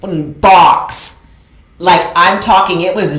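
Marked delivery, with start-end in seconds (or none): 0.0-1.2 defiant vow. Retold or imitated. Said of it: "and I said".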